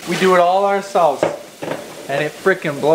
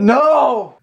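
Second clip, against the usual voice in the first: hiccuping squeak; hiccups; 7 semitones higher, 4 dB louder than usual. Real, not acted. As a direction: talk through hiccups. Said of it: "Stop with the hiccups".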